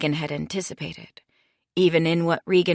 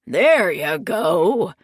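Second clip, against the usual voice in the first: calling out; 5 dB louder, much slower than usual. Acted. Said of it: "Steve shouted".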